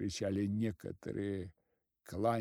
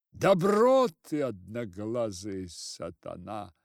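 furious cry; 7 dB louder than usual. A narrator's reading. Sister-in-law rounding on the head, loud cry. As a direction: fling the insult at him. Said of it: "вскричала она".

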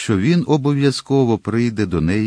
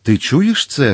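raised, higher narrated cry; loud exclamation; 5 semitones higher, 4 dB louder, slower than usual. A narrator's reading. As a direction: call it out, moderately loud and higher. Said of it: "голосно вигукнула міледі". (голосний вигук, трохи стриманий)

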